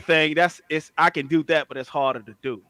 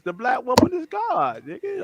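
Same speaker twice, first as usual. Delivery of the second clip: pitched-up preachy proclamation; louder preachy repeat; 7 semitones higher than usual. Acted. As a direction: proclaim it higher, like a sermon. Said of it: "I got my eighteen kids".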